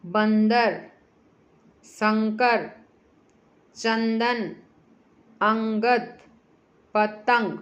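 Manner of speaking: each word slow, nasal ng sound clear; teacher reading the anusvara words slowly and clearly. Shown as a demonstration. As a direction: read बंदर, शंकर, चंदन, अंगद, पतंग with a clear ng before the consonant. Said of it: "ध्यान से देखो".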